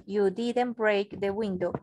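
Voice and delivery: slowish, careful model reading; slow demo line. Shown as a demonstration. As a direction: read it out for the class. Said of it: "y yo puedo decir". (lectura modelo despacio)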